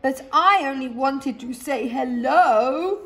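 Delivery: lightly voiced bear calling after them; bear calling out plaintively. A narrator's reading. Boris calling after the fleeing rats, lightly voiced. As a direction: call out, hurt and puzzled. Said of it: "called Boris".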